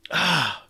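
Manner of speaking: drawn-out sigh holding back tears; man's held-back cry. Shown as a demonstration. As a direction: let out a demonstrated stifled cry. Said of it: "that's the boss man cry".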